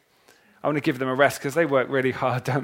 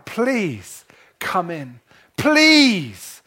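tearful begging; 3 semitones higher, much slower than usual. Acted. Father begging his eldest son outside the party, tearful. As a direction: plead through tears, then cry out. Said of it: "he's begging his son".

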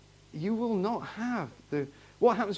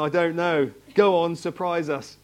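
louder, lightly put-on northern English accent; a touch of northern English accent; imitated northern English accent; 6 dB louder than usual. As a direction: mimic a northerner, with a drawn-out finish. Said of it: "with a nice northern accent".

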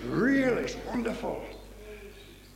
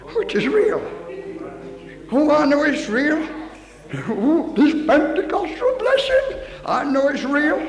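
high, loud declaration; fervent chorus recitation; 5 semitones higher, 4 dB louder than usual. Retold or imitated. Preacher recalls chorus from the piano, fervent declaration. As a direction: raise the voice in glad conviction.

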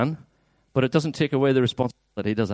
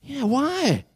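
high, stretched WHY with a falling tail; big why; 10 semitones higher, 3 dB quieter than usual. Acted. Preacher models Pilate's why for congregation, big high protest. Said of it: "just give us a big why".

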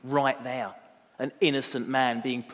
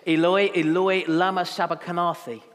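higher, louder crying out; 5 semitones higher, 9 dB louder than usual. Acted. Jesus cries out at the ninth hour, loud cry. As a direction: cry out to God in a raised voice. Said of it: "cried out in a loud voice".

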